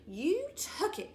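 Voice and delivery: shrieking at the teasing sister; shrieked. A narrator's reading. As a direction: shriek the accusation. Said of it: "I shrieked".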